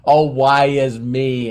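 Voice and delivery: mildly hammed-up woe; mock begging. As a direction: imitate someone begging in self-pity. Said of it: "all the begging".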